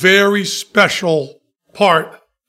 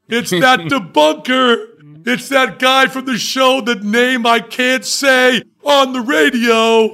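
mock outraged shout; 4 semitones higher than usual. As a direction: bellow the accusation in mock outrage. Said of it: "And then it goes".

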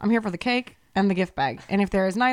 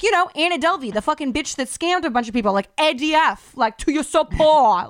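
heated, much higher and louder rant at the husband; enraged yelling; 5 semitones higher, 4 dB louder than usual. Retold or imitated. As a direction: blast him like you can't believe he doesn't know. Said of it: "I'm saying it like that".

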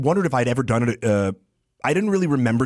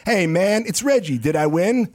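Reggie voice; 4 semitones higher than usual. Retold or imitated. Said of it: "I had this character, Reggie".

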